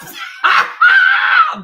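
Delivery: loud high shrieking cackle; howling laughter. Real, not acted. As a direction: burst out in a screaming laugh. Big laugh.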